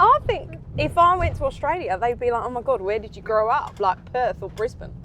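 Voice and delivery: put-on Aussie chat; hammed-up Australian accent. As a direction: keep up the mock Australian accent. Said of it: "Australian is my best accent".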